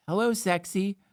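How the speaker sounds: playful seductive hello, rising; flirty hello with a lift at the end; failed seductive. Pretend. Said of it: "This one's sexy".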